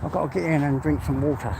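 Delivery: winded after a long walk; breathless, talking between breaths. Real, not acted. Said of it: "I feel a little bit out of breath today".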